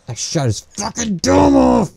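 high-pitched gamer outburst; excited cry. Real, not acted. Player exulting over a headshot, high excited cry.

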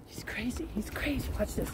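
whispered aside. Real, not acted. Owner whispering to viewers about crazy dog, whisper. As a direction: whisper it so the dog won't hear.

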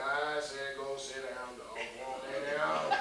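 acting nice. Cornered at the door, softly coaxing the old dog. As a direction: soothe the dog into lying down. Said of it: "I'm trying to act nice".

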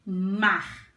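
"Mar" said slowly and firmly as one syllable; teacher's careful "Mar" in one mouth-opening; slow demonstration. Shown as a demonstration. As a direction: say "Mar" slowly, a single clear beat. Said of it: "Vamos falar a palavrinha devagar".

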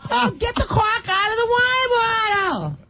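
put-on Massachusetts accent. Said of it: "How do you say C A U L K in Massachusetts".

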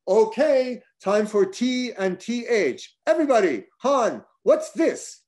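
rally the group like summer camp; camp counselor. Retold or imitated. Matt quizzing the table like a camp counselor, loud and high. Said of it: "like a camp counselor".

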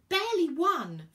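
loud, high retort; yelled back. A narrator's reading. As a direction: yell the answer back, exasperated. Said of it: "Virgo yelled".

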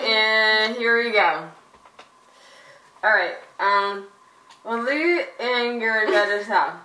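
words mushed by a mouthguard; wearing a mouthguard. Real, not acted. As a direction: talk around a mouthguard. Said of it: "you can kinda understand what I'm saying".

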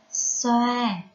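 "Xoa" with light s and oa rhyme; careful syllable model. Shown as a demonstration. Teacher shows pupils a hard word, "Xoa" pronounced carefully with a light s. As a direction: sound out "Xoa" alone, light s at the start. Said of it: "âm sờ nhẹ và vần oa".

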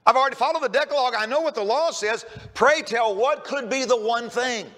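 imitated eager, stammering anticipation; mildly acted impatience, pressing for the answer; bated breath. Rich young ruler asks Jesus for the one thing, bated breath. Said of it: "here's a guy with, with, with bated breath".

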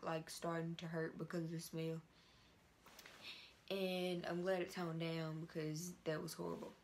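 stiff face, small mouth movements; with a dried face mask. Real, not acted. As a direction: lips framed by tight mask. Seen 2: Glossy black mask covers face around mouth throughout labelled words.

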